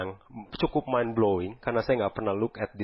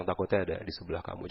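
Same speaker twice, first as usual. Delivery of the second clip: quiet aside; 3 semitones lower, 6 dB quieter, faster than usual. Pretend. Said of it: "Nggak usah ngomong kencang-kencang".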